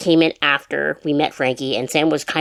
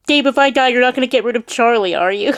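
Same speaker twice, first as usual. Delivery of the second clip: mock mom plea; 8 semitones higher, 4 dB louder than usual. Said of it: "my mom was like".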